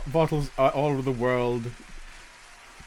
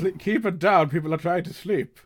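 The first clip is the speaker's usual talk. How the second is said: high protest; 5 semitones higher than usual. Acted. Sleeper telling the customer to hush, high and pleading. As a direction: plead with the noisemaker.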